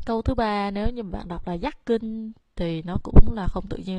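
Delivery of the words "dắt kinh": dắt kinh with dắt wrongly pitched high; don't drop the voice on dắt in dắt kinh; wrong high start. Shown as a demonstration. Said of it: "phải đọc xuống".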